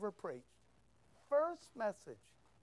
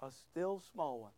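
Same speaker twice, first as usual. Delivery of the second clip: softened, lower voice; small voice; 5 semitones lower, 6 dB quieter than usual. Shown as a demonstration. Preacher contrasting it with a big loud one, small voice. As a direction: bring it down soft and low. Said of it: "Not a big, fat, loud one".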